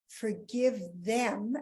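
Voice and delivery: Forgive them drawn out slowly with a rise; slow first try. Shown as a demonstration. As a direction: stretch out Forgive them, then rethink it. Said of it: "let's get this right".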